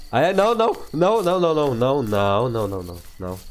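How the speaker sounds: panicked no no no; frightened pleading, fading out; scared. Real, not acted. Scared by monster in game. (assustado, implorando)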